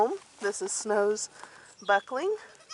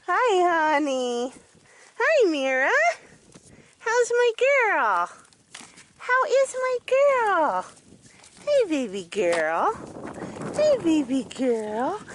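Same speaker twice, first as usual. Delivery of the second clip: very high, slow cooing to a goat; 8 semitones higher than usual. Real, not acted. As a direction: coo lovingly at the doe. Greeting her goat Mira.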